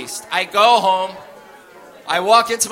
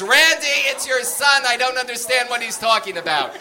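1 imitating mom; 5 semitones higher than usual. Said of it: "And my mother says".

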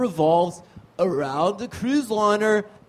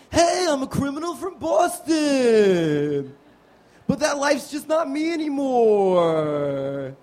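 Mark Wahlberg; 3 semitones higher than usual. Acted. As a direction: play a brooding Boston tough guy. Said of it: "my impersonation of a Mark Wahlberg movie".

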